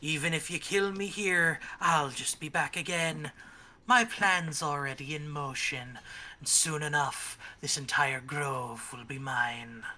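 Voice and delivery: slow gloating villain; villain hag. Acted. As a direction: taunt them, drawn out and smug.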